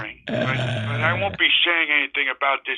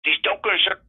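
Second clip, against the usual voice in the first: put-on folksy drawling old-timer; old prospector; 3 semitones higher than usual. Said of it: "now you listen here, buddy".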